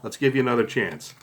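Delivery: teasing patter to the spectator; playful showman voice; magician patter. Shown as a demonstration. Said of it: "So, you say".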